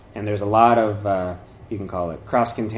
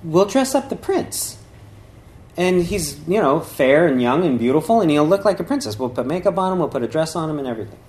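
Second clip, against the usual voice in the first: lightly voiced queen; 5 semitones higher than usual. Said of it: "the queen said".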